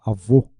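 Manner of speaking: Avô with a closed o at the end; closed final vowel. Shown as a demonstration. Teacher giving an example of a closed vowel, closed-o Avô. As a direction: say Avô with the last vowel closed, not open.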